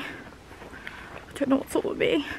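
soft whispered worry. Real, not acted. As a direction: breathe it out, barely voiced. Anxious aside, unvoiced.

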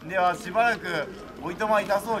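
delighted surprise. Retold or imitated. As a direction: act thrilled at the offer. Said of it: "って言って".

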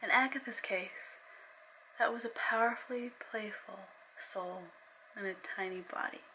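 steady storyteller reading; story narration. A narrator's reading. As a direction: read it like an audiobook. Reads her novel aloud.

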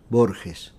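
Borges said the Spanish way, g as a throaty kh; Spanish pronunciation. Shown as a demonstration. Writer shows interviewer his name as said at home, Spanish pronunciation. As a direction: say Borges as at home, BOR-khes. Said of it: "on prononce Borges".

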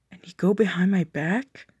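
hurt whisper, barely voiced. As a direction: breathe it out in disbelief. Betrayed partner confronting cheater.

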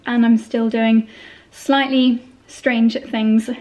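slurred s sounds in "slightly strange things"; lisping. Real, not acted. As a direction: lisp through the s in "still" and "slightly". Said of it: "That was a sentence full of S's".

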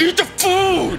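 slow clenched-teeth snarl; through gritted teeth. Retold or imitated. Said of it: "clenched teeth voice".

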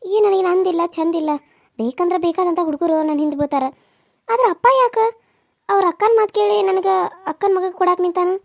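lightly voiced young village woman, fretting over her marriage; worried village bride. Bride torn over her wedding talks to herself, lightly fretting.

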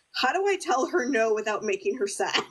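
giggling through a worried question; laughing. Retold or imitated. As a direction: laugh while asking. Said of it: "him being like".

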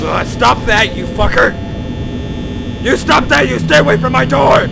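angry shouting. Real, not acted. Yelling at animatronic.

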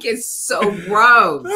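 slow, drawn-out disgust. Real, not acted. Whisky novice complains of the aftertaste, disgusted. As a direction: drag it out in real revulsion.

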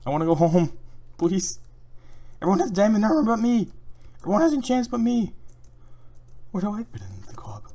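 high, loud pleading whine; mock whining. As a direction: whine like a left-out kid.

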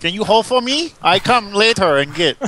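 hammed-up foreign clerk; mock Asian accent. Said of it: "Did you turn Asian?".

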